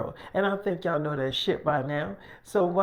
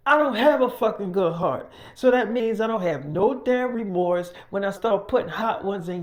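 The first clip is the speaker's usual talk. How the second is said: loud, higher, raging threat at the guests; menacing gang dad; 4 semitones higher, 3 dB louder than usual. Acted. Dad warns the guests he will shoot, loud and menacing. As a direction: bark threats like a trigger-happy boss.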